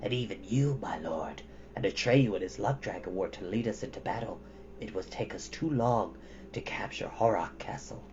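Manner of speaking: a hint of a worried old djinn; grave djinn. A narrator's reading. Blue djinn warns his lord, low and hushed.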